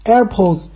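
AirPods with stress up front, tail fading; fading word ending. Shown as a demonstration. Showing how it's said, front-stressed AirPods. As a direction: say AirPods firmly, then let Pods go light. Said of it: "就这么说，它后边就淡了".

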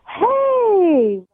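drawn-out, high, loud "Hey!"; retold shout. Caller mimics her tipsy date hailing her across the bar, shouting. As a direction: call it out loudly, imitating him. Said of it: "he shouts clear across the bar".

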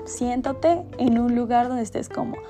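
calm guided meditation voice. Acted. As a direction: guide the listener gently through the meditation.

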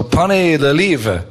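slow careful French; slow French accent. Retold or imitated. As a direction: spell out the French slowly. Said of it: "speak French really good".

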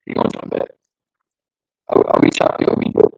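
choppy laggy call audio; breaking up over a bad connection; video call lag. Real, not acted. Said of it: "you just sound laggy".

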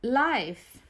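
one word at a time, with pauses; clipped single words, each one alone; staccato. Shown as a demonstration. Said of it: "build the story one word at the time".

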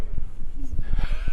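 voiceless startled gasp; sudden shuddering breath; re-enacted startle. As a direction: act out jolting awake with a breathy noise. Re-enacts being shaken awake.

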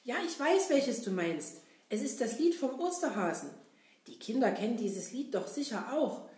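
high, cheerful puppet clown; bright, eager clown talking to kids; Kasper puppet voice. Acted. Kasper invites the kids to sing.

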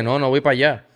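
mildly annoyed retold refusal. Player telling Julio he won't go out, annoyed. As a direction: refuse with a touch of irritation. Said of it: "Le dije así, molesto".

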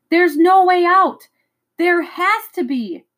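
high, slow, desperate cries; terrified, disbelieving, pushing each word out; a boy's panic, high and drawn out; panicked cry. A narrator's reading. Trapped in mist, panicking.

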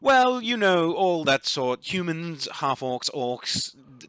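disgusted dryad. Acted. Dryad lists fleshy races.

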